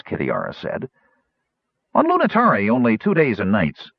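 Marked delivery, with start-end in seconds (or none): 1.9-3.9 high, eager gnome voice. Acted. Gnome corrects Kitiara.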